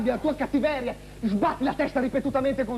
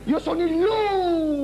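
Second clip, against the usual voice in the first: wolf voice; 5 semitones higher, slower than usual. Acted. Announcing himself as the wolf.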